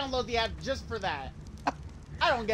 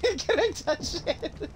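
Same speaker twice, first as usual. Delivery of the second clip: high, drawn-out pleading; slow, high mock-starstruck question; hammed-up awe; 8 semitones higher, much slower than usual. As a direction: play up the childlike wonder. Replays his starstruck question for laughs.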